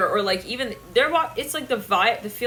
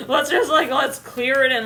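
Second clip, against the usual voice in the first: laughing; 5 semitones higher, 6 dB louder than usual. Real, not acted. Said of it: "laughing while clearing".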